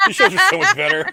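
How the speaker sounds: high, loud laughing gush; excited gush. Retold or imitated. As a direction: gush over the old shows. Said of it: "I was like".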